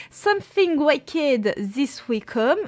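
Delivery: English title read in a thick French accent; bad English accent. Real, not acted. Booktuber reading an English book title to her viewers, heavy French accent. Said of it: "mon accent anglais totalement horrible".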